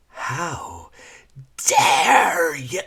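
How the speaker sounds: loud, high Scottish outrage; furious. Acted. Lyra raging at her former master, furious Scottish shout. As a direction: hurl the accusation in Scottish anger.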